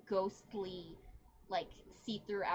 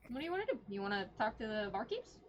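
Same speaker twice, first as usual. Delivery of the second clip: Cranberry's voice; 2 semitones higher, faster than usual. Acted. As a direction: pitch way up for the eager innkeeper guide. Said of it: "Cranberry turns around and looks at you guys and goes".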